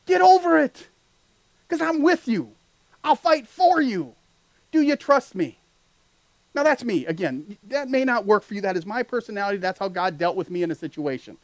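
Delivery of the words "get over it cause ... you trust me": higher, half-scolding, half-reassuring; a loving God telling you to grow up; lightly voiced God, mock stern then kind; God's voice. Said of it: "God is saying".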